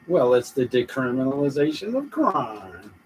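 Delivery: lightly mocking politician's answer, pitch leaping near the end; mock a politician explaining himself. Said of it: "it'd be a mocking".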